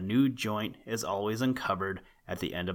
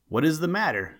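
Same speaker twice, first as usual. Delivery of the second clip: stern; 7 semitones higher, 4 dB louder, faster than usual. A narrator's reading. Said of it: "said he, quite sternly".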